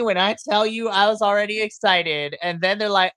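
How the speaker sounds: usual speaking voice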